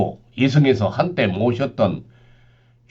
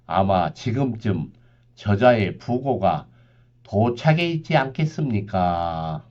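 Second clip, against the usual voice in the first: low somber reaper; 3 semitones lower, 3 dB quieter than usual. Acted.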